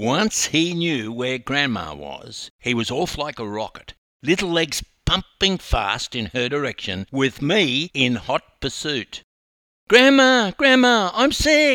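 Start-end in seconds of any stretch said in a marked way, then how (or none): 9.9-11.8 shrill, very loud, high-pitched scream. Narrator reads a little boy running to his grandma, screaming. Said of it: "he screamed".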